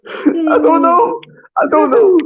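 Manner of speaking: high, slow Austrian-sounding attempt at a Northern Irish accent; a Northern Irish accent that slips into Austrian; accent gone Austrian. Teased for sounding Austrian, he keeps the botched Irish accent going. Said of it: "How are you sounding Austrian?".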